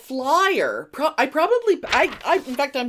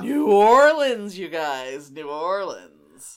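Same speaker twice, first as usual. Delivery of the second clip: emphatic disbelief; 4 semitones lower, 5 dB louder, slower than usual. Real, not acted. Dramatic emphatic repetition.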